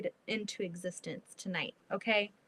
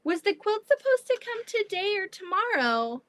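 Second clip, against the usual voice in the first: friend; 10 semitones higher, 5 dB louder than usual. Retold or imitated. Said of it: "My friend is like".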